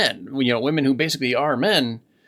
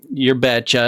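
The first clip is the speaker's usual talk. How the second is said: "your betcha" in northern Minnesotan; Swedish-tinged Minnesota accent; 5 dB louder than usual. Shown as a demonstration. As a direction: quote the local Minnesota accent. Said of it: "kind of Swedish accent going on there".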